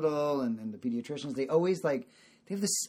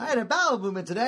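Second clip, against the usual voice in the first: put-on fast, louder, slightly higher old man announcing; mock old-timer brag; 7 semitones higher, 4 dB louder, faster than usual. Dad parodying older folks' bowel talk, quick and pleased. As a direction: boast about it like a proud old-timer. Mocking old people's chat.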